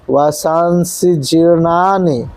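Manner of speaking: जीर्णानि with a clear r, slow; careful pronunciation. Shown as a demonstration. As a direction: sound the र in जीर्णानि plainly. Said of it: "र लगा हुआ है". (जीर्णानि में र साफ़ बोलें)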